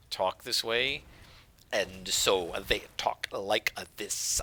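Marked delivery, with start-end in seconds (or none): 1.7-4.4 slow, halting words with gaps between them; halting Dragonborn voice. Shown as a demonstration. Host demos the Dragonborn voice for viewers, slow and halting. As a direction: speak like a creature whose mouth struggles with words. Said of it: "sort of this halting voice".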